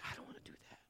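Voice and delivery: whispered reluctant plea; whispered inner protest. Retold or imitated. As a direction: breathe it out under your breath. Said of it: "I'm like".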